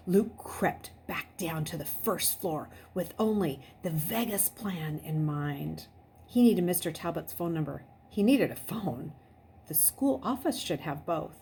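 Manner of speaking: suspenseful read-aloud narration, dropping to a hush at the tense moments; story narration. Acted. Teacher reading a chapter aloud to her class, suspenseful narration. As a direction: read the chapter aloud and keep them on edge.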